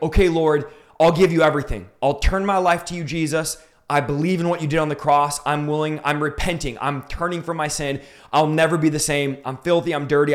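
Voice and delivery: mildly frustrated plea to God; retold frustrated surrender. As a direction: give in to the Lord, acting out some frustration. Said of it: "I'm frustrated going".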